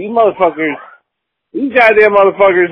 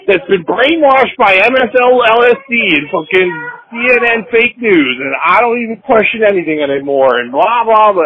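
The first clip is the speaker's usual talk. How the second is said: higher, mocking sing-song of insults; sarcastic self-mockery; 4 semitones higher than usual. Podcaster mocking rednecks' insults about himself, sarcastic sneer. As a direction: parrot the hecklers' insults back, sneering.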